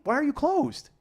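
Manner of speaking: high, loud indignant question; exasperated rant. Real, not acted. Driver complaining about the closed customer line, loud exasperation. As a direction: vent at the closed hotline.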